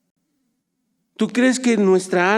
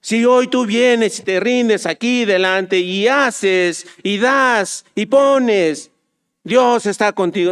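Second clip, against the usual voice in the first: mocking a TV preacher. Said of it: "charlatanes de televisión".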